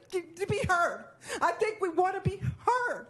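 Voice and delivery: fighting back real tears; voice breaking. Real, not acted. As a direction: near tears pleading to be heard. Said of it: "I'm gonna get emotional here".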